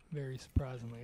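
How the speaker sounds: loud, pleased burst; suddenly loud with surprise; excited. Real, not acted. Reacting to saving the wolf.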